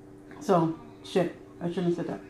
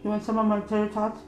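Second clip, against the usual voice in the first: words muffled by a bite; mouth full; 4 dB quieter than usual. Real, not acted. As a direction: talk while still chewing. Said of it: "Your mouth full?".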